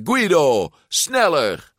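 high, impatient shout; bellowed order. A narrator's reading. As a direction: yell at a teammate to hurry. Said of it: "brulde Ercole".

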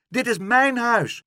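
high, loud protest; indignant call. A narrator's reading. Pluk to the woman in his doorway, indignant shout. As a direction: cry out to claim what is yours. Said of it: "riep Pluk".

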